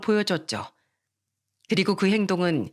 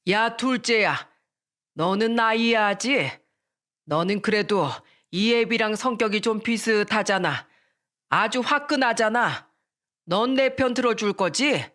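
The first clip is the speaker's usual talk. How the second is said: pressing father. Acted. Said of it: "대답을 강요하듯".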